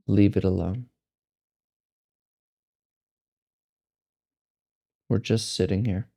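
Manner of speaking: measured meditation guide, long silences between phrases; guided meditation. Acted. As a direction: guide them to let go, one unhurried phrase at a time.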